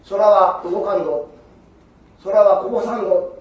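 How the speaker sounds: forceful declaration. Acted. Daruma scolds the disciple.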